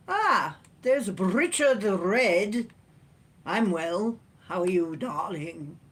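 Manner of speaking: cheerful greeting. Real, not acted. Greeting viewer by name.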